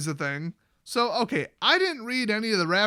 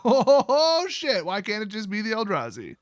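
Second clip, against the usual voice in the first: mock dismay; 3 semitones higher, 3 dB louder than usual. Jace dismayed at news.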